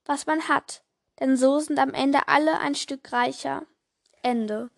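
put-on lively storytelling voice for children; story narration. A narrator's reading. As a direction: read it like a bedtime story. Reads Christmas story aloud. (Geschichte vorlesen für Kinder)

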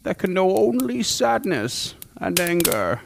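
slow, hushed dramatic narration; ominous slow cold open. Acted. Host opens the monster episode with slow ominous narration. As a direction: draw them in slowly like a dark storyteller.

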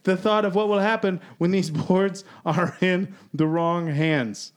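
put-on British accent, fading out. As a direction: keep up the hammed-up British read to the last word. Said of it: "I gotta stop using this accent".

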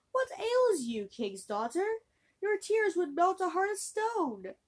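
high, slow gentle frog voice; a kindly frog calling up from the well. Acted. Frog asks the crying princess what ails her, high and gentle.

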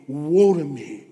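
loud cry of conviction. Retold or imitated. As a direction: call out in sudden conviction. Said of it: "he cries out to me".

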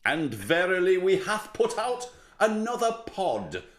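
put-on slightly grand, slow old-world announcement; lightly hammed-up antique oratory; mock-archaic proclamation. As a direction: play at a herald's pompous address. Mock-archaic podcast opening.

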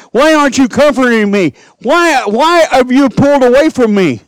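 high, loud pleading cry to the Father; anguished cry. Retold or imitated. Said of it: "He cried out".

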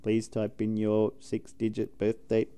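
slow lightly voiced automated prompt; a hint of a recorded phone menu. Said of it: "it's like".

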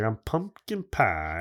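slow Southern drawl, "pie" stretched; Southern accent. Retold or imitated. Friend retelling what the walkie-talkie guy said, Southern accent. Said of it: "a Southern accent".

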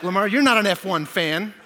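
loud, mock-offended retort; mock indignant. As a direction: scold a friend in jest. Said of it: "I'm like".

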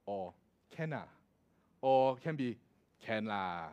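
Singaporean accent. Shown as a demonstration. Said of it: "For example".

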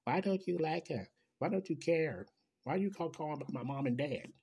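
a hint of an upset child's voice; mock child's plea. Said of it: "yellings of the kids".

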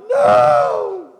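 high shouted refusal; refusing shout. Retold or imitated. Christians shouting no at God, loud. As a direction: yell no like a stubborn child.

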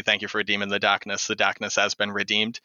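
lightly shown Boston accent, R dropped in "darkness". Shown as a demonstration. Streamer reciting a channel reward to prove the accent, Boston accent. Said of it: "people can hear the fact that I did have an accent".

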